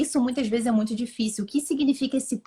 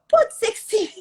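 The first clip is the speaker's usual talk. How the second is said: ironic; 11 semitones higher, 4 dB louder than usual. Real, not acted. Ironic concession before laughing.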